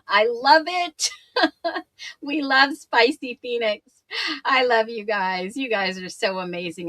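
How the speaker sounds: a slightly strained, hoarse voice. Real, not acted. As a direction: voice going hoarse. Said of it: "I hope I am not losing my voice".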